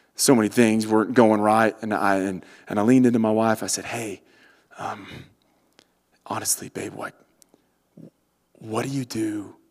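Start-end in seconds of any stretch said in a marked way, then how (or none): 3.9-9.5 whispering, quieter and slower. Retelling leaning in to ask the wife something in a quiet moment, retelling a whisper. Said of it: "And I had to whisper because".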